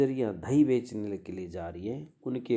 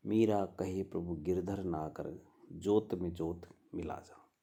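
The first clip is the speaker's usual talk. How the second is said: verse recitation. Acted. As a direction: recite the pada like a devotional chant. Recites Mira's pada as a verse. (भजन का धीमा पाठ)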